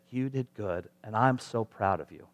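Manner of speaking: soft, sincere praise; gentle parental affirmation. Acted. Parent giving affirmation to the kids, gentle pride. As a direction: reassure a child quietly.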